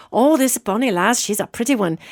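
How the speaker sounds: lightly voiced, amateurish Irish accent; terrible Irish accent. Medium imitating Irish ghost James admiring a girl, terrible Irish accent. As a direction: have a go at a bad Irish accent. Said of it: "terrible Irish accent".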